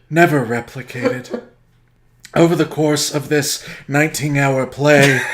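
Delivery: grave, slow trailer-voice storytelling; mock-epic narration. Summarizing Endgame to his cohost as a grim epic saga. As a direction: tell it like a doom-laden epic.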